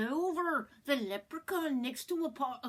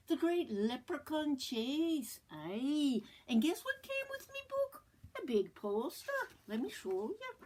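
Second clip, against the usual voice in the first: bad Irish accent; 3 semitones higher than usual. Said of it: "really bad Irish accent".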